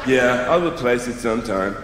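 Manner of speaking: careless flatmate shrugging off damage; lightly voiced careless flatmate; bad flatmate. America as a careless flatmate breaking your things. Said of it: "the really bad flatmate of the world".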